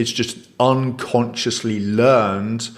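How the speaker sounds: "unconsciously" set out slowly and deliberately; slow down to underline "unconsciously"; stress on unconsciously. Real, not acted. Explaining that emotions are learned patterns, slow emphasis on "unconsciously". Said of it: "I emphasize the word unconsciously".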